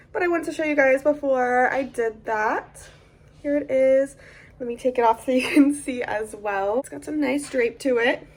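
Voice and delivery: sleepy, just-woke-up voice. Real, not acted. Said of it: "Excuse me if I sound like I just woke up".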